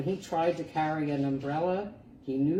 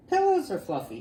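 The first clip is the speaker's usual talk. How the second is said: high and loud, a new idea; excited idea; 11 semitones higher, 6 dB louder, faster than usual. Acted. Little porcupine, thrilled by a new plan, bursting out. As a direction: pop it out like a sudden discovery.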